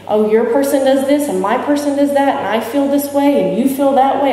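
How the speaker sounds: a mild mock of people comparing notes; chatty Al-Anon members. Mimicking Al-Anon members bonding.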